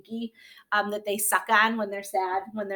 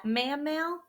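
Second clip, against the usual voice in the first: normal talking voice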